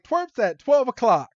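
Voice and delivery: high, loud imitation of a lookout; mock lookout call. Jessie pointing out the twerps ahead, mock lookout call. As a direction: call out the sighting, hammed up. Jessie calls out the kids' position.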